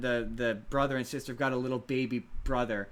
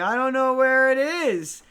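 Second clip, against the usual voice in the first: put-on much higher, sweet little-kid voice; baby dinosaur voice; 10 semitones higher, 9 dB louder than usual. Baby dinosaur asking the audience about her blankie, high and childlike. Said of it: "and she's like".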